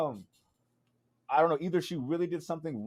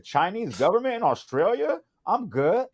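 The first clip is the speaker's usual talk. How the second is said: raised-pitch mock disbelief; incredulous refusal; 5 semitones higher, 4 dB louder than usual. Guy turning down police who want a talk, incredulous refusal. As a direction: balk at it, pitched up.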